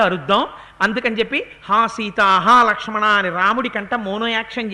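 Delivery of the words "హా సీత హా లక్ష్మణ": mock cry of Rama, louder on the second call; a retold anguished call; imitating Rama's cry. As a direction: call out Sita and Lakshmana as a faked Rama voice. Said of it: "రాముడి కంఠంలా కంఠం పెడదాం".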